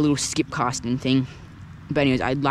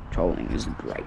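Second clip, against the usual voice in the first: whispered; 8 semitones lower, 3 dB quieter than usual. Real, not acted. Aside while fishing.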